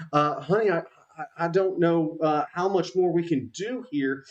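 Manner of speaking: a touch of panic, lightly voiced; overwhelmed Abigail. Baker buried in chicken skewers, mildly overwhelmed. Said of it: "she's just overwhelmed".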